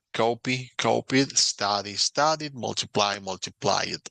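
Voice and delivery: copy, copied, study, studied, multiply, multiplied in clear English; English pronunciation model. Shown as a demonstration. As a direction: read the pairs as a model. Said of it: "modelo ... pronunciación".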